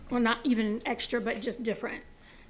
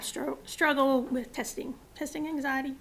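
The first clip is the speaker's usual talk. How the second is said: hoarse, fading voice; losing voice; 2 semitones higher than usual. Real, not acted. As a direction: voice giving out. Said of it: "losing my voice".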